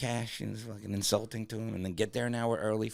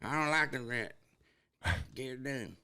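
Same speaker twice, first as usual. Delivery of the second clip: hillbilly dog; 6 semitones higher than usual. Acted. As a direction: complain as a scared backwoods hound. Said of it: "Now your dog talk like this".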